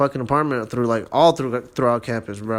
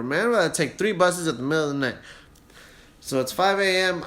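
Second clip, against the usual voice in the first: ordinary talk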